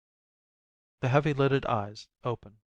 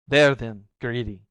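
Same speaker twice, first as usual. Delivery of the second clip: crying out; 6 dB louder than usual. Acted. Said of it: "she cries".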